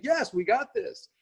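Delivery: high, slow, gleeful "we got this"; triumphant cheer. Retold or imitated. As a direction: celebrate like you just nailed it. High-fiving after test runs.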